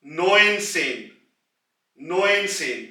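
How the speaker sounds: "नोइन सेन" drawn out slowly, नोइन first; careful teacher model "नोइन सेन"; slow, clear "नोइन सेन" for learners; slow demo of neunzehn. Shown as a demonstration. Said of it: "पहले नोइन की आवाज".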